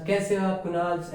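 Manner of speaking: a light mock greeting, कुणाल्स said with final s; mock wrong greeting. Teacher pretending to greet one student as plural, कुणाल्स with final s. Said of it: "ऐसे थोड़ी कहूंगा".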